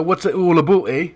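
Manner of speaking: lightly put-on Canadian accent. Shown as a demonstration. Host correcting his friend's impression with a mild Canadian accent. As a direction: show off a Canadian "eh". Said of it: "it needs to be a bit more like".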